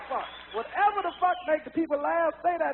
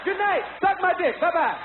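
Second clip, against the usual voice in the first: mock curse show; 2 semitones lower than usual. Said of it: "walk out and say".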